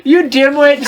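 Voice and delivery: mock angry insult. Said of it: "Snake began to shoot angrily".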